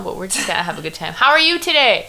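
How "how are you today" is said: syrupy, pitched-up polite question; fake-cheerful host asking; fake sincerity. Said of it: "I know I sound really fake right now".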